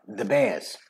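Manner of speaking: "the Bears" low and soft, r dropped; New York "the Bears", softened r; New York accent. Shown as a demonstration. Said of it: "in New York it'd be".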